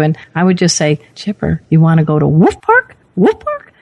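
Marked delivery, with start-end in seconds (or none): 1.2-3.0 eager sing-song call to a dog; coaxing the dog. Retold or imitated. Host recalls asking her old dog about the park, eager call. 3.2-3.7 much higher, rising, teasing call; excited repeat. Retold or imitated. Host repeats the park name to her dog, excited high call.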